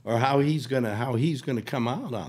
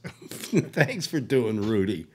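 slow thanks; much slower than usual. Retold or imitated.

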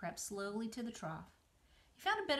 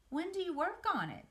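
high, pleading little pig; a nervous pig begging his friend; 10 semitones higher, 4 dB louder than usual. Acted. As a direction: beg her for an answer. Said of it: "begged Wilbur".

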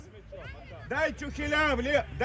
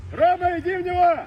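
raised, urgent pitch-side call; 4 semitones higher, 3 dB louder than usual. Real, not acted. Coach urging Roma into the tackle, calling out. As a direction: call out to a player on the field.

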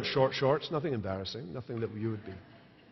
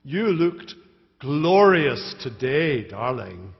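drawn-out, mocking glorious; mock praise to her husband, dripping sarcasm; sarcastic jibe; 5 dB louder, much slower than usual. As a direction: sneer the compliment slowly. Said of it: "with biting sarcasm".

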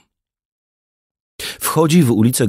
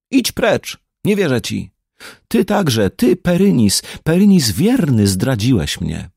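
high, hurt and angry outburst at a servant; angry dismissal; 4 semitones higher than usual. Acted. Queen Izolda furiously sends her loyal servant away, high and angry. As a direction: drive him away in bitter anger.

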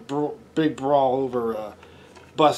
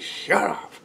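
mock yell; 4 semitones higher, slower than usual. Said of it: "a musician said".

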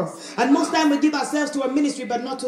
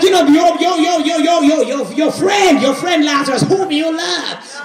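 stammering mock indignation on repeated words; mad, manipulative pleading; 4 dB louder than usual. Mary and Martha reproaching Jesus for not showing up, indignant. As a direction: act out an upset reproach, stumbling into it. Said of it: "Mary and Martha got so mad".

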